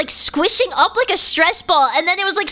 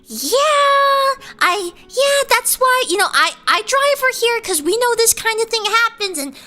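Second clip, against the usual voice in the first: higher, flustered excuse; fibbing mom voice; 4 semitones higher than usual. Retold or imitated. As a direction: cover the lie, a bit too eager. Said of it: "she was like".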